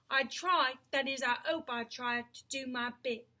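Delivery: lightly voiced cabby going slow and rural; slow country voice. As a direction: let the cockney soften into a country man's voice. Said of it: "his voice was growing slower and richer, more like the country voice".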